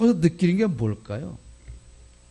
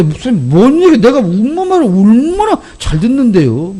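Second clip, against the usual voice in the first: put-on child voice; 8 semitones higher, 5 dB louder than usual. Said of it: "진우한테 물어보세요".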